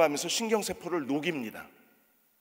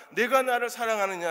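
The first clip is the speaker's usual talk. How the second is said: solemn question; 6 semitones higher than usual. Acted. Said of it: "세 번째 이르시되".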